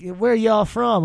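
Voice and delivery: put-on Southern accent; Southern belle accent. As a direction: imitate a Southern belle, drawn out. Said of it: "she had that accent".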